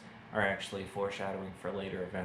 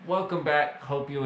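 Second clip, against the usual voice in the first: higher, louder cheery welcome back; excited greeting; 6 semitones higher, 8 dB louder than usual. Real, not acted. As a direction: greet them brightly, like a host. Returning after asking viewers to watch.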